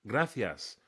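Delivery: "gracias" with a lisped th for the c; pronunciation demo. Shown as a demonstration. Showing tourists how to say "gracias", lisped th pronunciation. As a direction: say "gracias" the Castilian way, GRA-thee-as. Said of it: "They can't even say".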